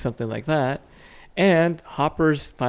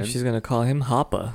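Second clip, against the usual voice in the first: put-on says Hoppa in a Boston accent. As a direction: Hoppa with a dropped r, Boston style. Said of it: "stop with your Boston accent".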